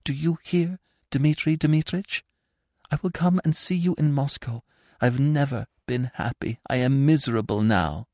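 tender desperate parting; sad hushed farewell. A narrator's reading. Anna pleads softly.

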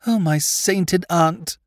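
slow, high despairing moan. Acted. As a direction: groan it out in dismay. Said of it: "he moaned".

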